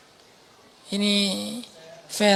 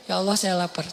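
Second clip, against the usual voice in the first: soft short plea; 2 semitones lower, 6 dB quieter than usual. Retold or imitated. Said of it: "cuman dua detik terakhir".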